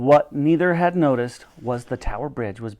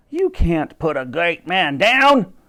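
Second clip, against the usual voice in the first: calling out; 3 semitones higher, 4 dB louder, slower than usual. A narrator's reading. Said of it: "he called out".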